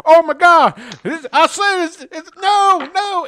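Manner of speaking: high, loud panicked shriek; freaking out. Acted. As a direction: scream in total panic. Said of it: "he freaks the fuck out".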